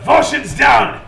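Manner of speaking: high, loud urgent call; yelling. Acted. Boss yelling orders about a downed ally. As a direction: shout the order across the fight. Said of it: "he also yells out".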